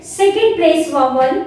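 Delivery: very slow, each word spaced out; slow dictation. Shown as a demonstration. Teacher slowly dictating the vowel place to the class.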